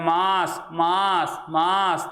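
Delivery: मास repeated, the sound coming only through the nose; nasal demo. Shown as a demonstration. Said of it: "ध्वनि केवल नाक से ही निकलती है". (मास को केवल नाक से बोलें)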